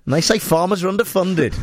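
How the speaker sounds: mock posh. Mocking farmer's posh tractor.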